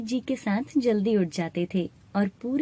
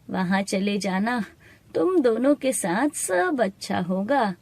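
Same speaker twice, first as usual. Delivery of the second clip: lightly voiced old woman, reassuring. Old woman sending children to temple, lightly aged reassurance. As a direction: guide lightly like a kindly elder. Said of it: "उस बूढ़ी औरत की बात".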